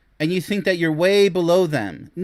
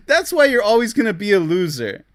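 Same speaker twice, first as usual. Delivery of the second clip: taunting; 5 semitones higher, 5 dB louder than usual. Real, not acted. Taunting the man after laughing.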